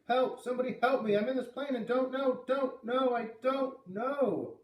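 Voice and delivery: high, loud cries for help, dragging out the last words; panicked scream. A narrator's reading. Boy alone in a plane screaming into the microphone, panicked. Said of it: "began to scream into the microphone".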